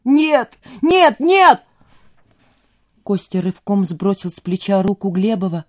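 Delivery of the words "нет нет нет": high, loud, rising no no no; panicked refusal. A narrator's reading. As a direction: shove the words away in panic.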